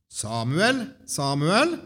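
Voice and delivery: SAMUEL called twice, each rising at the end; calling a name. A narrator's reading. The Lord stands before Samuel and calls, rising call. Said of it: "ropte som før".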